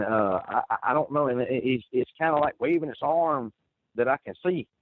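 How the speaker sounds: ordinary talk, nothing marked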